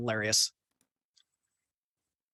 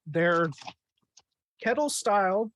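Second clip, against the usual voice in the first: eating chips while talking; mouth full. Real, not acted. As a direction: talk around crunching chips. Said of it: "Sorry, I'm eating chips".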